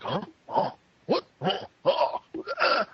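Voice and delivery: imitating puzzled anime grunts; mimicking the characters' pointless grunts; mocking grunts. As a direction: toss out confused little huhs. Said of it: "all these different grunts".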